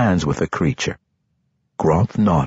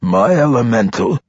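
mild startled question; surprised alarm; 3 semitones higher, 3 dB louder than usual. A narrator's reading. Archmage asking after his elemental, mildly alarmed. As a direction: ask with a touch of alarm. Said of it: "with surprise and alarm".

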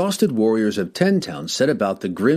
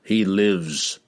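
amused. A narrator's reading. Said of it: "with an amused smile".

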